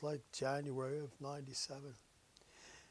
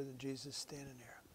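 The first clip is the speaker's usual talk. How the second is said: gentle whisper; 7 dB quieter than usual. Retold or imitated. Husband answers dying wife softly.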